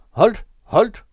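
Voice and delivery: high, loud cry to stop; råb. A narrator's reading. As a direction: shout each word in alarm. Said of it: "råbte delinkventen". (højt, forskrækket råb)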